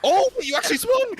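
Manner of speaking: very high, loud outburst; startled surprise. Real, not acted. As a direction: exclaim it in real disbelief, pitch shooting up. Startled by an unexpected move.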